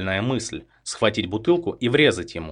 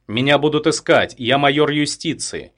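higher, louder desperate warning; raised warning; 6 semitones higher, 5 dB louder than usual. A narrator's reading. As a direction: threaten to save yourself. Threatened captive warns killer. (громкое отчаянное предупреждение)

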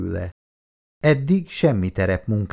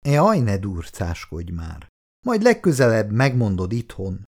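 coaxing. Acted. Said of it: "próbált engesztelően szólni a férfi".

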